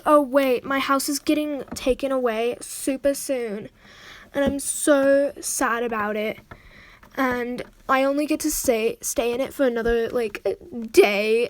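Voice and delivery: lightly hammed-up retold woe; mock dramatic. Imitating a friend losing their house soon, mock dramatic. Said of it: "she was so dramatic about it".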